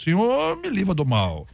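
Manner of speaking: high-pitched playful plea to God; casual prayer. Acted. Believer chatting intimately with God, mock-pleading exclamation. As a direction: cry "Lord" up high, then drop. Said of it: "conversar com Deus sobre qualquer assunto".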